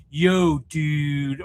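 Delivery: drawn-out American dude voice; mock American accent. Shown as a demonstration. Host showing a Brit how to sound American, dude accent. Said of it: "can you sound like an American?".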